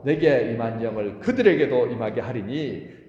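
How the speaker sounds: slow, loud unison reading of the verse; solemn congregational recitation; reading scripture aloud. Real, not acted. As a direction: read the verse out slowly with the congregation. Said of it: "시작!".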